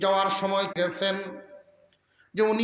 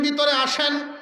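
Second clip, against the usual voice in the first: higher-pitched call of invitation; lightly acted welcoming call; 6 semitones higher than usual. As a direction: call the guest inside with raised pitch. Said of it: "এমনি ডাক দিছেন".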